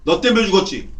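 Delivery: acted blaming outburst; pointed, scornful accusation; slandering accuser. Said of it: "비방하는 거야".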